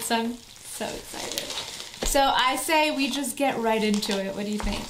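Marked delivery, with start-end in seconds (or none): 0.0-1.4 whispering. Real, not acted. Unboxing, breathy aside.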